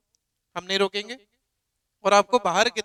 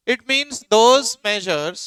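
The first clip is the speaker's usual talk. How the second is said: slow, spaced dictation for notes; 5 dB louder, much slower than usual. Shown as a demonstration. Teacher dictating a definition, slowly. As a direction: let each word land for writing. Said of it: "लिखिए".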